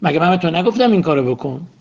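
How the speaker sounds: a mild imitated scolding shout; half-hearted scolding cry; mock yell. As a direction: play the nagging spouse, lightly.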